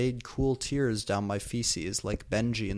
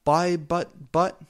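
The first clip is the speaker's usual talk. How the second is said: mock grunt; 6 semitones higher, 6 dB louder, slower than usual. A narrator's reading. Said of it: "he grunted".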